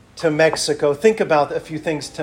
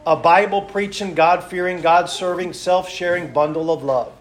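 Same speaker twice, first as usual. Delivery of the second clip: loud, rhythmic pulpit delivery, listing each item; fervent preacher's list; preaching; 4 dB louder than usual. Acted. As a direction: preach it to the congregation.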